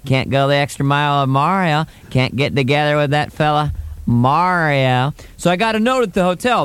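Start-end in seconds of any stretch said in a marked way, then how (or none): 0.1-5.1 George Bush impression. Mocking Cuomo at the benefit, light Bush. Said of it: "playing Bush".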